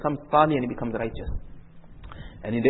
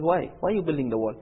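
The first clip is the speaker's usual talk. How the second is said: retold indignant questioning, pitched up; mock an exasperated objection, voice lifting higher; raised-pitch complaint, mildly heated; mildly angry protest; 6 semitones higher than usual. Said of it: "Musa alayhi salam got very angry".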